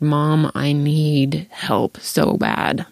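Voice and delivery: slow, breaking plea with a whispered please; a touch of retold crying; retold pleading sob. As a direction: beg through tears, half laughing. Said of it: "just started bawling".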